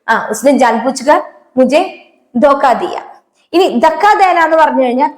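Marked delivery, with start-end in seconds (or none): 0.3-3.0 slow repeat. Shown as a demonstration. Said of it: "അവൻ എന്നെ മനഃപൂർവ്വം ചതിച്ചു".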